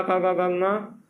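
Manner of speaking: खा, गा said slowly, one by one; slow consonant drill. Shown as a demonstration. Teacher reciting the ka group of consonants, slow and clear. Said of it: "यहाँ पर जैसे का वर्ग".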